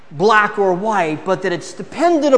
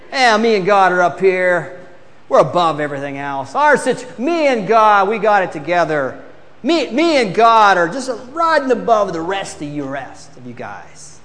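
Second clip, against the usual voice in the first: arrogant. Retold or imitated. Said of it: "It's like saying".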